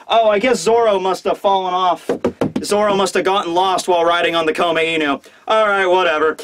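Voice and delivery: mock-nonchalant, shrugging it off. Luffy noticing his crewmate is gone, nonchalant. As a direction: toss it out as if fully expected. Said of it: "so nonchalantly, he's just like".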